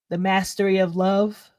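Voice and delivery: yawning through the words; sleepy yawn while talking. Real, not acted. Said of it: "I'm yawning 'cause I'm tired".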